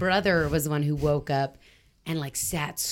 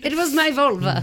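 put-on old lady voice; 7 semitones higher, 5 dB louder than usual. Repeating the punchline voice.

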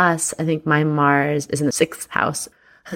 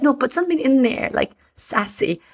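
mock partner voice; 9 semitones higher than usual. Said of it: "you're like".

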